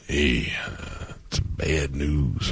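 low, soft, slow bad-news voice; Randy Savage. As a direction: break it slowly, a wrestler with bad news. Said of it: "Randy called me on Monday".

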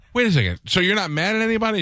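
incredulous dad. Retold or imitated. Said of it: "So I say to her".

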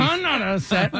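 high, tight, forced calm; through gritted teeth. Real, not acted. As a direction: insist you're fine through clenched teeth. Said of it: "through gritted teeth".

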